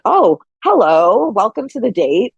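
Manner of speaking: mock welcome to a man touching her knee; sarcastic welcome. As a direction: tease him with a dry hello. Sarcastic quote of her reaction.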